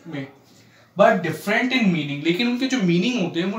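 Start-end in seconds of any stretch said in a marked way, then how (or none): 1.0-2.2 each word drawn out for writing down; slow dictation. Shown as a demonstration. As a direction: dictate slowly so students can copy. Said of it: "teacher dictating a definition". (धीरे-धीरे लिखवाना)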